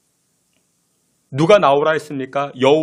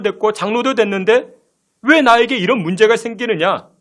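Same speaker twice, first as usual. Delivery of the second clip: indignant grumbling, mostly pitched up; acted complaint; 3 semitones higher than usual. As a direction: protest as if let down by a promise. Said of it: "이스라엘 백성들이 원망하고 불평하자". (원망하고 따지는 말투)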